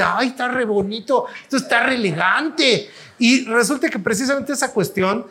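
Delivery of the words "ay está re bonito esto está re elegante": higher, impressed gush; gushing over it. Retold or imitated. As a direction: swoon over how elegant it is. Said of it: "tú ya estás así de".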